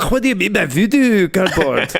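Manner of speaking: hammed-up Scottish accent, baffled query; mock Scottish accent, thick and exaggerated. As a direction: ask it like a put-out Scot. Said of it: "Oh, yeah, so he's Scottish".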